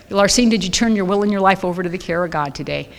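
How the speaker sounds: lightly voiced sweet sponsor. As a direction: ask it kindly, like a caring sponsor. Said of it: "I'll never forget her sweet voice".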